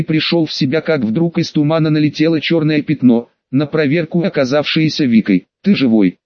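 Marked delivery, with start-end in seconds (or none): 5.6-6.2 near tears. Acted. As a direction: voice close to crying. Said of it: "чуть не заплакала она".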